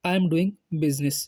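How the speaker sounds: slow, careful teaching model sentence; slow demo. Shown as a demonstration. Teacher modelling an English sentence for Hindi learners, slow. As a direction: spell it out slowly for learners. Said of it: "तो कहेंगे".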